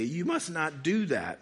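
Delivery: real voice crack mid-reading. Real, not acted. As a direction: voice breaks briefly while reading aloud. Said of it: "You're laughing at my voice crack".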